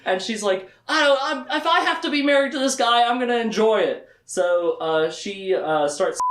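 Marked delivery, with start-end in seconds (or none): 0.9-4.1 higher, louder resolved declaration; decide defiantly to enjoy it; determined. Retold or imitated. Kaylin deciding about her husband, defiant and higher.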